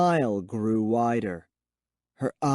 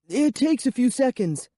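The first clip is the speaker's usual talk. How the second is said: high and shaky; 12 semitones higher than usual. Acted. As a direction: bluff calm while scared. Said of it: "my voice came out high and shaky".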